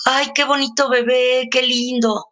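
put-on gushing over a cute baby; cooing to a baby. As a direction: coo at the baby like a doting stranger. Playing with a baby.

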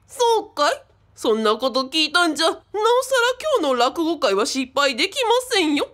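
lightly hammed-up old Edo storyteller; a touch of the showman rakugo master; rakugo master manner. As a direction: promise it like a mildly put-on rakugo master. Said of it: "なんか話し方めちゃくちゃで".

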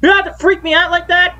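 startled. Real, not acted. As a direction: caught off guard by a scare, laughing it off.

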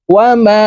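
ওয়া মা with the long vowel stretched three counts; madd of three alif. Shown as a demonstration. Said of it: "তিন আলিফ টানিয়া পড়িতে হয়". (তিন আলিফ টেনে পড়া)

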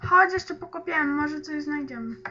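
mówi z gumą w ustach; słowa przez żutą gumę; żucie gumy. Real, not acted. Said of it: "Już wypluję tą gumę". (z gumą w buzi)

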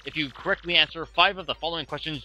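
game show host. Acted. Quiz host voice.

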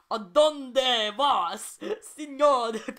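put-on loud, high, drawn-out New Jersey-accented Spanish; heavy New Jersey accent. A narrator's reading. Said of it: "in her heavy New Jersey accent".

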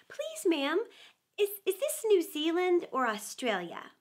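a hint of a timid girl asking "Please, ma'am"; polite curtsy voice. Alice rehearsing asking a lady politely. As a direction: ask sweetly, with a stammer on "is, is". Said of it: "curtsy as she spoke".

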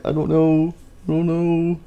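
high, drawn-out singsong; playful high-pitched musing; sing-song shrug. Real, not acted. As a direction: croon it lightly, up high. Puzzled by quiet game, sing-song repeat.

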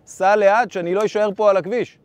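urgent shout. Retold or imitated. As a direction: yell it at the driver over gunfire. Repeated order to the driver, louder. (צעקה דחופה לנהג)

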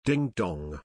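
a harmless little ding dong; gentle ding dong. Shown as a demonstration. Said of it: "carries a different connotation".

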